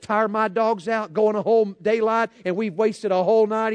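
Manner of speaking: mock-mad grandfather venting, gradually rising; hopping mad. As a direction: imitate a fed-up hunter ranting about his dogs. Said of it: "he was hopping mad".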